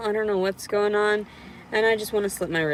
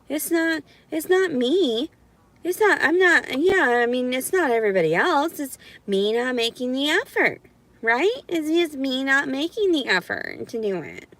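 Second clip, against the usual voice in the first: higher-pitched mock concession; sarcastic agreement; 4 semitones higher than usual. Speaker parroting critics who blame them, sarcastic. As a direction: play at agreeing, pitched up and insincere.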